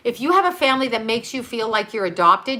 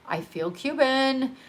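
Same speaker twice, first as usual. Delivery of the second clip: slower and softer, sincere; heartfelt; 4 semitones higher, 4 dB quieter, slower than usual. Real, not acted. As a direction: say it like a quiet confession. Slow, softer emphatic repeat.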